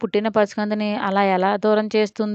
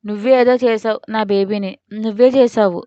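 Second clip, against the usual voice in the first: disgusted anger. Acted. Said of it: "అసహించుకుంది".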